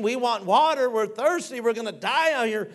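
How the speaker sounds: whining Israelites. Retold or imitated. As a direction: whine it like a crowd begging for water. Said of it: "they're complaining".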